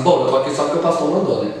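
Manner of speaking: grudging sarcasm at the pastor; a touch of sarcasm, pushed fast; mocking reluctance. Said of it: "Desse jeito, tá terrível".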